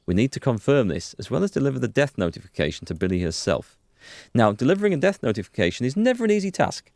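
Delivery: a hint of a calm, composed police lieutenant; brief your partner steadily, a little fast; lightly voiced lieutenant. Lieutenant briefing partner before the death notification, lightly voiced.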